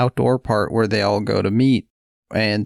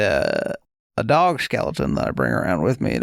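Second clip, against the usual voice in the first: put-on old prospector; 5 semitones lower than usual. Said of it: "guy, prospector".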